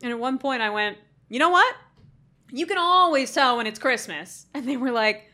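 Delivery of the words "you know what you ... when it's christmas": manic announcement. Retold or imitated. Acts out delirious sick self.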